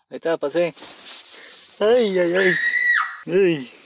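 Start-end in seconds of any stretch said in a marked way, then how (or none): 1.8-3.7 short loud frightened cries; startled yelps. Real, not acted. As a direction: yelp at the jump scare. Startled by jump scare.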